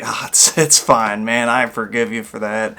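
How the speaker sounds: mock-cheerful brush-off that swells at the end; mock giddy. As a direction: gush as if absurdly unbothered, ending loud. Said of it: "get all giddy and happy".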